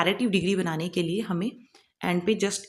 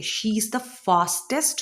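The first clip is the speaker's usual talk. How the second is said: slow example sentence; much slower than usual. Shown as a demonstration. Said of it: "या वो सबसे fast है".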